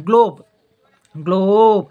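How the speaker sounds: emphatic demo. Shown as a demonstration. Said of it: "ग्लोब म्हणते वेळेस ओचा उच्चार होतो".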